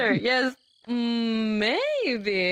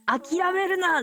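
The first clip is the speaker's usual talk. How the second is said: rousing cheer; 6 semitones higher, faster than usual. Real, not acted. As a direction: fire them up to keep going. Cheering on language learners.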